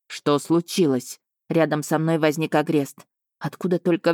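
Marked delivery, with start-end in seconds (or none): 0.1-1.2 ниже и медленно, невозмутимо; calm, slow, unhurried king asking; спокойный король. Acted. Король Агрест появляется рядом. (король невозмутимо спрашивает, медленно и низко)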